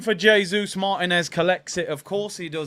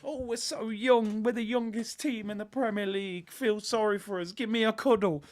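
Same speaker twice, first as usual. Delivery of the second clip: mock whiny kids; 5 dB quieter than usual. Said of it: "it's like a nursery".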